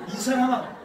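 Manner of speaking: amused Gyeongsang brush-off; laughing Gyeongsang accent. Retold or imitated. Pastor jokes Peter was from Gyeongsang, laughing Gyeongsang accent. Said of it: "베드로가 경상도 사람이었는지".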